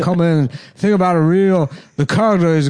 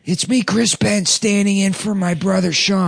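Chris Penn impression; 5 semitones higher than usual. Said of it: "I can do Chris Penn".

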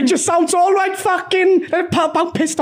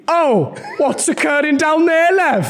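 slow, sing-song south Wales voice; southern Welsh accent; slower than usual. Acted. Mum in a Welsh-off doing a south Wales accent. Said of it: "I am doing more southern".

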